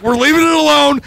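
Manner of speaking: high-pitched, fed-up declaration; retold emphatic finality. Telling Chris the bulb job is over, emphatic.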